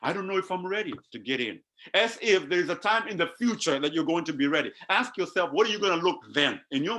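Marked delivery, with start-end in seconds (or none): 0.0-1.6 quick, softer, unsure mumbling; hesitant doubter. Retold or imitated. A doubting believer unsure they're ready to go in, quick and soft. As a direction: rattle it off quickly and softly, full of doubt. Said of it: "You say".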